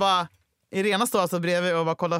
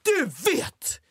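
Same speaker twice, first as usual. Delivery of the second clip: theatrical monologue; 5 semitones higher, slower than usual. Retold or imitated. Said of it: "du håller en monolog".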